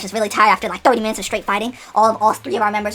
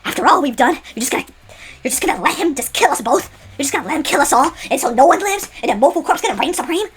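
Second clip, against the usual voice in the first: 1 desperate pleading; 5 semitones higher than usual. Acted. Begging Six not to betray.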